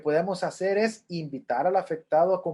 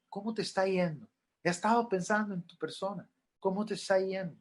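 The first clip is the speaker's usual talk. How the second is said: softer, caring check-in; gentle question; 3 semitones higher, 5 dB quieter than usual. Shown as a demonstration. Counselor gently asks a mourner how they are, softened. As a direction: ask it kindly, softly. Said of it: "Pregúntele".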